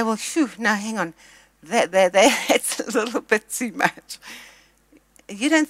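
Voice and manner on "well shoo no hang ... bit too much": hesitant disbelief. Retold or imitated. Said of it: "you would look at that and say".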